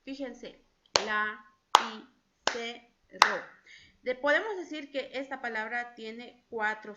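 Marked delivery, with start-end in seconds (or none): 1.0-3.4 each syllable punched loud and apart, la, i, se, ro; split into syllables. Shown as a demonstration. Teacher claps out syllables for the children, loud and separated. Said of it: "ayudándonos con las manitos".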